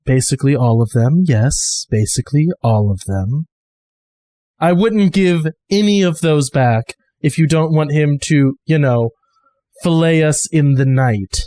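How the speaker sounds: Maul's low voice. Acted. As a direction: drop into Maul's grim voice. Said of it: "just goes".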